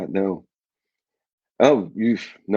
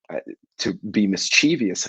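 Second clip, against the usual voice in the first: ordinary delivery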